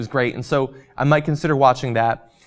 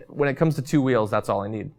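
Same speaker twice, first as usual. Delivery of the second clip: losing voice. Real, not acted. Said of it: "Losing my voice here".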